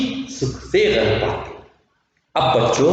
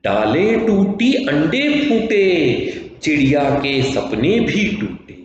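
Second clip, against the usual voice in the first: sing-song poem recitation. Acted. Teacher reciting the poem to her pupils, sing-song. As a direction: chant it like a children's rhyme, stretching the vowels.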